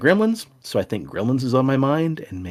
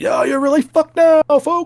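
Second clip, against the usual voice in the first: very high, booming put-on monster truck announcer hype; 7 dB louder than usual. Recalling a hallucinated voice, booming monster truck voice. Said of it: "the monster truck voice".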